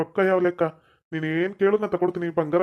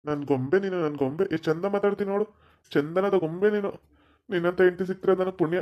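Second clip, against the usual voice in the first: doting endearment; 4 dB quieter than usual. Acted. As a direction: sweet-talk her softly. Husband dotes on his wife. (ಮುದ್ದಿನ ಮೆಲುಮಾತು)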